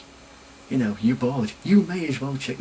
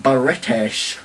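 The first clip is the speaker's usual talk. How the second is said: imitating California accent; 2 semitones higher, 3 dB louder than usual. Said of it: "really thick California accents".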